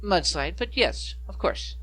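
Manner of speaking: put-on light Valley Girl gnome voice; chirpy slight Valley Girl lilt; Valley Girl accent. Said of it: "slight Valley Girl accent".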